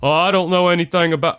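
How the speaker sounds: hammed-up Southern politician dodge; Bill Clinton impression. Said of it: "my best Bill Clinton impersonation".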